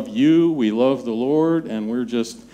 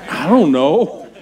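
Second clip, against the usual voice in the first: laughing, slow, sheepish shrug of a line; 3 semitones higher, 4 dB louder than usual. Retold or imitated. Husband answers wife sheepishly, laughing. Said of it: "It's like".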